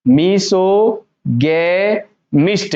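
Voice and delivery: मिसोगैमिस्ट stretched slowly as "mee-so, gay, misht"; hard G, syllable by syllable. Shown as a demonstration. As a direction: break मिसोगैमिस्ट into slow pieces with a hard g. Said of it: "वो ग होता है". (मिसोगैमिस्ट को तोड़कर, "ग" के साथ धीरे बोलें)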